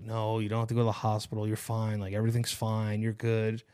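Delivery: low, soft, quick reassurance; soothing reassurance. Retold or imitated. Girlfriend calming him about the hospital, retold soothing. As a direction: gently mimic someone calming a panicker. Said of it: "she's, like, soothing me".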